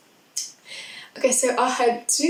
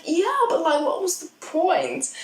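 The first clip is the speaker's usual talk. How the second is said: debating friends; 7 semitones higher than usual. Retold or imitated. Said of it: "We were like".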